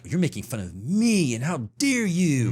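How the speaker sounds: drawn-out mock outrage; stretched-out, hammed-up affront; mock indignation. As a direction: play the offended complainer, slowly. Mimics an offended audience member.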